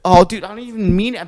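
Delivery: loud, slow, high dismay; dismayed outcry. Retold or imitated. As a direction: cry out in shocked regret. Acted morning-after dismay.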